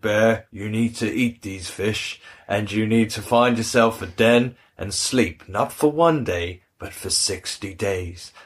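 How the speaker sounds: slow, lightly voiced wise storybook figure; a slow, measured pronouncement, dropping at the end; hint of a solemn cartoon elder; Old Man Wind. Voices Old Man Wind's command.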